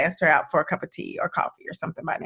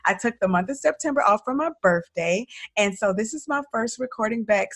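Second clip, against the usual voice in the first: hoarse from allergies; raspy, sniffly voice. Real, not acted. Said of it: "so forgive my raspy voice".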